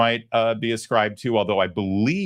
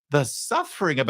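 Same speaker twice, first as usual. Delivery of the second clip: higher, lightly mimicked Irish-Jamaican lilt; mock Irish Jamaican accent; 6 semitones higher than usual. Host echoing the politician's clip, light Irish Jamaican accent. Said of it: "kind of an Irish Jamaican".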